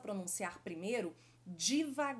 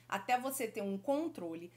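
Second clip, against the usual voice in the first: ordinary talk, nothing marked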